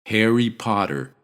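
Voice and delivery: Harry Potter with open a; pronunciation demo. Shown as a demonstration. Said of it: "both these sounds in his name".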